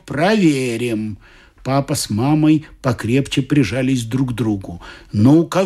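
storyteller voicing each figure; lightly voiced characters in a told story; story narration. A narrator's reading. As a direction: read it like a Christmas tale to adults. Reads a story aloud.

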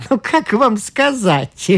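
slow, apologetic hedging; guilty start. A narrator's reading. Brown hedges guiltily to the doctor, slow. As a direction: begin apologetically. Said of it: "виновато начал Браун".

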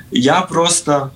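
ordinary delivery

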